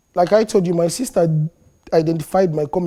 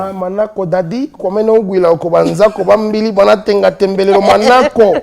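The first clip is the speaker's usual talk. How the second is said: loud, high prophet voice in local language; booming man of God in character; preacher character voice; 4 semitones higher, 8 dB louder than usual. Acted. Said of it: "The spiritual knuckles".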